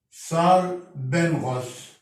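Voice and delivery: بنغوس said slowly, ng sound; drawn-out بنغوس for students; slow word demo. Shown as a demonstration. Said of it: "ينطق هنا برضو". (نطق بنغوس ببطء)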